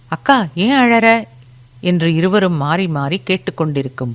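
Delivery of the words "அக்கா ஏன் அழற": higher, rising worried question; voiced brother's anxious appeal; concerned younger brother. A narrator's reading. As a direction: plead with a crying sister to explain. Brother asks crying sister why.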